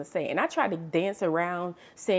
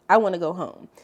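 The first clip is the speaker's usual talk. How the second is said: louder burst of happy relief; joyful louder repeat; 7 dB louder than usual. Retold or imitated. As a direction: say it again, louder with joy. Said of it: "if I'd never felt any joy before in my life".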